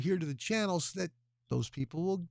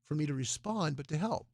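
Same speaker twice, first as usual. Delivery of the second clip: tired. Real, not acted. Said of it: "Sorry, a little tired".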